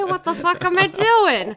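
loud, high, exasperated cry; exasperated outburst. Real, not acted. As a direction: throw it out in loud despair.

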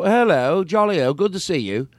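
jokey put-on British greeting; mock a jolly British accent; parody British accent. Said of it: "I'm doing a parody of it".

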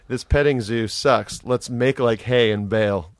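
dad joke voice. Retold or imitated. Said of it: "It was just my dad joke voice".

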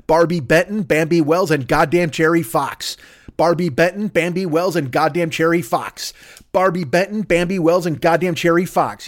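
"Barbie Benton, Bambi Wells" lilting up in even beats, "Cherry Fox" falling; rhythmic cadence. Shown as a demonstration. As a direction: chant the three names like a poster tagline, landing on "Cherry Fox". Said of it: "just for the cadence".

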